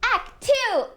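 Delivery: high, bright title call; ringing announcer-style call; big announcement. Acted.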